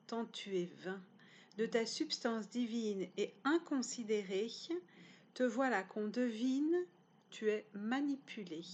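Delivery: solemn poem reading with deliberate breaks; poetry recitation. Acted. Author reading their poem on time to viewers, measured recitation. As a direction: recite the poem in measured phrases, pausing between lines. Reads own poem aloud.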